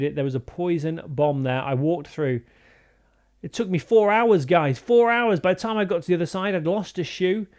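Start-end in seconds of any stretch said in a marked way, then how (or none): 3.4-6.3 exaggerated outrage. Exaggerated complaint to viewers.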